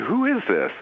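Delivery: outraged, snap the question out; outraged demand. Retold or imitated. To the strangers listening on his phone, outraged. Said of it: "I was so outraged".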